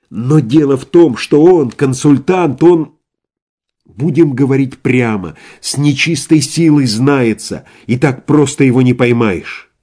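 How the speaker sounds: agitated insistence. Acted. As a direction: press the point hard. Иван горячо убеждает врачей. (возбуждённо, настойчиво)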